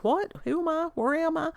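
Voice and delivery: high-pitched, hammed-up bewilderment; mock confusion. Vlogger joking about a Biden moment, mock confusion. Mocking own mental blank.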